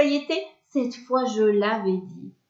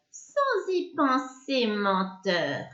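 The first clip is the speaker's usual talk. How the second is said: sneering witch. Acted. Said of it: "Elle ricane doucement".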